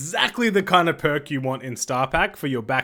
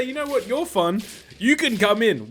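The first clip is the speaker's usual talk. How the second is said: playful high voice; 6 semitones higher than usual. Retold or imitated. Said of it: "And I say".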